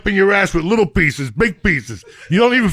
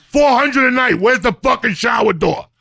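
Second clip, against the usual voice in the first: worked-up rant; 4 semitones higher than usual. Real, not acted. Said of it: "I got emotional about hotels".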